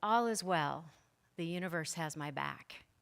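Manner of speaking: usual speaking voice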